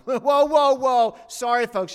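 high, loud nervous interruption with a laugh; panicked public relations handler. Acted. PR handler cutting in on Jesus before the crowd, alarmed and loud. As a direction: cut in loudly, apologizing for a client. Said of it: "The public relations".

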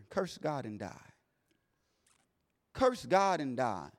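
very soft, slow hushed tempting; devil's whisper. Retold or imitated. Devil whispering to Job through his wife, hushed and slow. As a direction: breathe it like a voice in his ear. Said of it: "the devil is whispering in his ear".

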